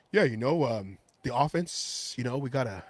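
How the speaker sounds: imitating Derek Carr. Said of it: "Derek Carr was like".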